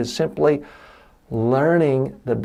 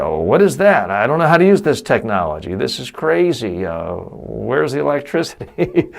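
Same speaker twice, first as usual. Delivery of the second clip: mock baffled person. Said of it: "if someone showed you a toaster".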